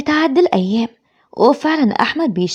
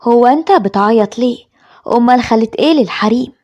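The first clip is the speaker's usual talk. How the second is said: mildly sharp scolding, a little forceful; 3 dB louder than usual. Acted. Mother scolding her bereaved son for crying, sharp. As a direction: scold with a touch of severity. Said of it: "وبتقوله بحدة".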